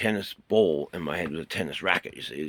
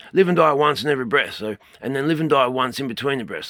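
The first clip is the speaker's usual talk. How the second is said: proclaiming; 7 semitones higher, 9 dB louder than usual. Shown as a demonstration. Teacher proclaims breathing maxim.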